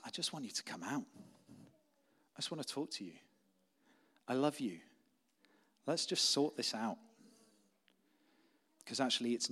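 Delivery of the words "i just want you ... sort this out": soft parental coaxing; mildly hushed, tender reassurance; gentle, not angry. Retold or imitated. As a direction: coax a hiding child out kindly. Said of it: "isn't an angry question".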